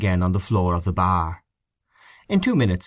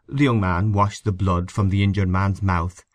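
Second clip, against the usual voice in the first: plain reading voice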